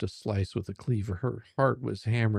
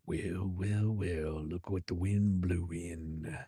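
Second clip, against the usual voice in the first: smug Liam; 3 semitones lower, 4 dB quieter, slower than usual. Acted. Liam's smug greeting.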